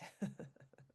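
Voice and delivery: brief breathy chuckle; small laugh. Real, not acted. Meditation guide amused by swirling snowflakes, small laugh. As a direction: let out a little voiceless laugh. Amused at own snowstorm image.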